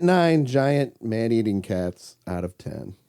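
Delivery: slow, measured "giant man-eating cats"; spaced-out words, keeping the meaning open; deliberately ambiguous phrasing. Shown as a demonstration. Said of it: "this is why I said it like that".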